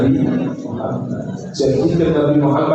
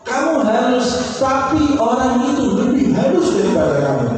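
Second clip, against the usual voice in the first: put-on much higher, slowed old beggar voice, full of wonder; voiced blind beggar; 8 semitones higher than usual. Blind beggar telling Abu Bakar of the gentler man, high and wondering.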